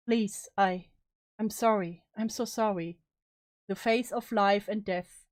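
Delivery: measured, sombre first-person storytelling; story narration. A narrator's reading. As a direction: read it as a bleak inner confession. Resumes reading the bleak story.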